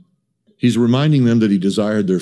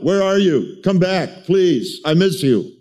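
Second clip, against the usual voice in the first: higher pleading call; God calling out; 6 semitones higher, slower than usual. Retold or imitated. God's heart calling out to his people, pleading higher. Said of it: "God's heart calling out".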